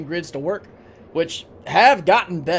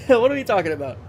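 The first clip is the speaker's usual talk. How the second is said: laughing; 4 semitones higher than usual. Real, not acted. Laughing at odd chat message.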